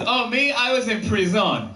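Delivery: mock-French "pree-ZON"; Frenchify prison with an airy French affectation; French accent. Ex-convict making prison socially acceptable, French accent. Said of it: "in a French accent".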